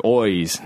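"eyes" said as "oys"; Irish vowel. Shown as a demonstration. Explaining Irish speech, "eyes" turned into "oys". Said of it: "they say their eyes is eyes".

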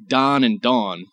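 "Don" with ah, "Dawn" with aw; Don-Dawn contrast. Shown as a demonstration. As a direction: keep "Don" and "Dawn" as separate vowels. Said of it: "which obviously I pronounce differently".

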